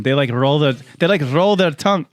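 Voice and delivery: put-on Scottish accent. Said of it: "Now I sound Scottish".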